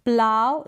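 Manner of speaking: प्लाव said as plough, rhyming with cow; model pronunciation. Shown as a demonstration. Teacher modelling प्लाव for her students. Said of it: "यहाँ पर pronunciation दिया है".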